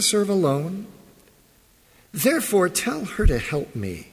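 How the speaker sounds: measured Bible reading voice; formal scripture reading. Acted. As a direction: read the passage steadily to the congregation.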